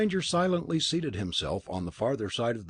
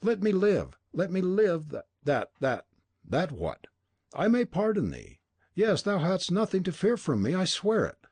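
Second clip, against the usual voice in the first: pleading in fear; 7 semitones higher than usual. A narrator's reading. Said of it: "The old man's anger changed to fear".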